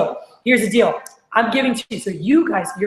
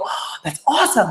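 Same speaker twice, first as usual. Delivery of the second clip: higher-pitched, eager delight; excited reaction; 4 semitones higher than usual. Retold or imitated. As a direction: imitate a rep thrilled by the deal. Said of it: "get excited about it".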